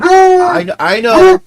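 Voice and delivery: high, squeaky voice for the dog; soothing a whining dog in a high squeaky voice; pet talk. Real, not acted.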